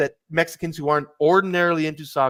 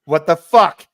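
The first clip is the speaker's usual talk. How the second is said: mock outrage; 2 semitones higher, 9 dB louder, slower than usual. Mock outrage at innocent question.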